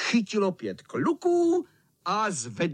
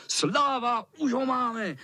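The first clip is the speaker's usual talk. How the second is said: calling out; 8 semitones higher, slower than usual. A narrator's reading. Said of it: "volali kluci".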